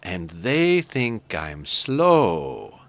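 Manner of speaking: put-on slow, dopey Canadian accent, drawn out; Canadian kid drawling slowly. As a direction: play the slow Canadian kid, stretching each word. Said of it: "the Canadian kid looks over and says".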